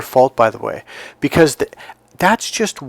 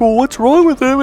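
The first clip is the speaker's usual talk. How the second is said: put-on high, teary kid voice, much higher; hurt little kid; 13 semitones higher, 5 dB louder than usual. Young Michael hurt by his brother's words, high and teary. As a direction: sound like a wounded child about to cry. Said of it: "And I was like".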